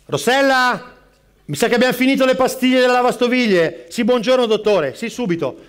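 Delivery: harried barista. Acted. Barista juggling customers in crowded bar.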